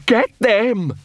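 rabid poodle leader rallying the pack; snapped command. A narrator's reading. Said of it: "snapped Big Fido".

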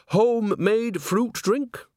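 high, slow, sugary offer; sweet innocent old woman. A narrator's reading. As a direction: lay the innocence on thick. Nanny sweetly offers drink.

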